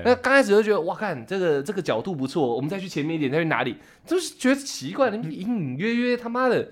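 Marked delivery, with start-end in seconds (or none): 0.8-3.8 retold lines, dropped much softer; hushed chatter. Podcaster recalls chatting in the waves, softly. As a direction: murmur it like an aside among friends.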